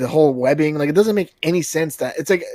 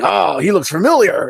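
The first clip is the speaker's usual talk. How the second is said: Venom; 4 semitones higher, 4 dB louder than usual. Acted. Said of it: "And he's like".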